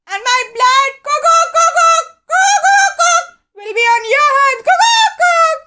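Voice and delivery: high, loud rooster, firm and insistent. A narrator's reading. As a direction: lay the blame on him, rooster-style. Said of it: "said the rooster firmly".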